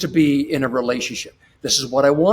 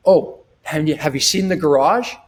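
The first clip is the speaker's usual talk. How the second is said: smiling confident husband. Retold or imitated. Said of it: "now you put the smile on".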